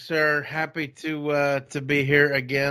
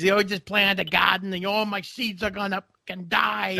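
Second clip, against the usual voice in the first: mimicking a Boston buddy with broad A's in "garden"; Boston accent; 8 semitones higher than usual. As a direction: lean into the Boston A's a little more on the retake. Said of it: "he's got the, you know, the A's".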